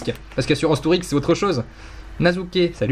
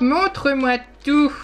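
much higher, slow, drawn-out sleazy plea; mock-lecherous drawn-out tout; mock creep voice; 11 semitones higher, slower than usual. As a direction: stretch montre-moi tout up high like a hammed-up creep. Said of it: "ça fait un petit peu pornographique".

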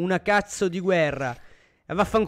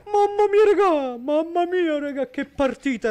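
excited yelling; 8 semitones higher, 5 dB louder than usual. Real, not acted. Caster reacts to game end.

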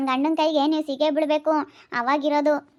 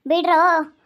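loud cry; 4 dB louder, slower than usual. Acted. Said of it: "ನಾನ್ ಕಿರ್ಚಾಡ್ತೀನಿ".

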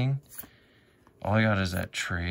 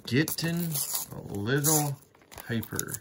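mock hyper; 7 semitones higher than usual. Vlogger teasing himself for being hyper, high sing-song. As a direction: playfully act out being hyper, high and singsong.

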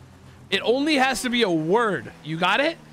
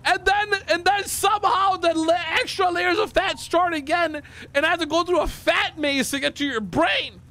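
high, indignant tirade; exasperated rant; 4 semitones higher than usual. Real, not acted. Player ranting at partner who won't understand, exasperated. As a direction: pile up the insults, fumbling for the word.

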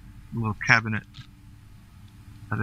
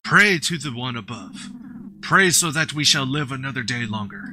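solemn prayer intoning. Acted. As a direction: chant it like a temple elder calling the faithful. Intones the game's prayer text.

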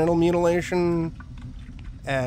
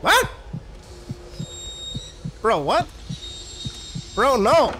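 shocked disbelief; 8 semitones higher than usual. Real, not acted. Reacting to creepy doctor.

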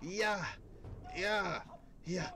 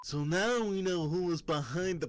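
excited cartoon sidekick; 9 semitones higher, 4 dB louder than usual. Sidekick praising the hero.

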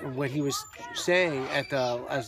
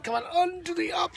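effortful heave. Real, not acted. Father hoisting little boy onto his lap, effortful shout.

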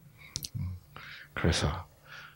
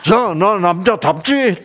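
slow, higher, smug boast; swaggering husband; 9 semitones higher than usual. Retold or imitated. A Gyeongsang husband bragging to the congregation, slow smug swagger. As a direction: puff up your chest and show off.

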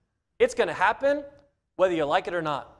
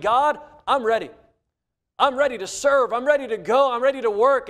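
eager Moses; 4 semitones higher, 3 dB louder than usual. Acted. Moses eagerly offering himself to God.

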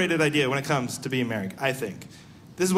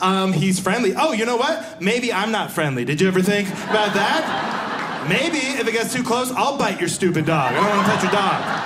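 mock indignant rant; 2 semitones higher than usual. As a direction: pretend to snap back at the dog owner, half-joking. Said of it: "he yells at me with all this attitude".

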